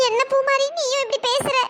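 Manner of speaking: hurt, tearful pleading; choked-up, halting confession; crying. Acted. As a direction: protest through sobs. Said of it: "இங்க வந்து லூசு மாதிரி அழுதுட்டு இருக்க".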